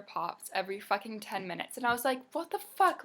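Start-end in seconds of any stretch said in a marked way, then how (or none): 2.3-3.0 high, loud disbelieving what the fuck; incredulous. Retold or imitated. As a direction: blurt it out in shock. Inner reaction to rude customers.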